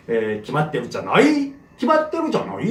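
mock the wrong way to say 기맛대로잖아요; wrong pronunciation. Shown as a demonstration. Teacher showing students the wrong way to say 기맛대로잖아요. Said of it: "이렇게 발음하면 안 됩니다".

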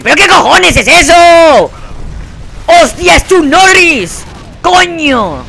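high, loud, drawn-out yelling; outraged shouting. Real, not acted. Player facing an unkillable enemy, outraged disbelieving shout. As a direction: shout in sheer disbelief, stretching each phrase.

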